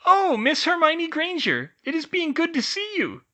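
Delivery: very high squeaky elf greeting; pleased old elf. A narrator's reading. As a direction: welcome the guest politely. Tilly greets their guest.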